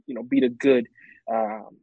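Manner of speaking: talking with a swollen tongue; words thick from a swollen tongue. Real, not acted. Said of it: "my tongue is swollen, so I might be sounding a little weird".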